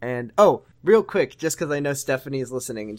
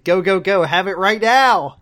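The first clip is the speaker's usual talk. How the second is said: loud, high hammed-up sign-off; mock urgent shout; 7 semitones higher, 10 dB louder than usual. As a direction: yell it like an over-the-top rallying cry. Hammed-up weekly sign-off catchphrase shouted.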